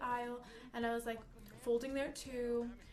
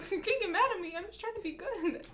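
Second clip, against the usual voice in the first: whiny plea; 8 semitones higher, 6 dB louder than usual. Retold or imitated. Pleading with angry shopper.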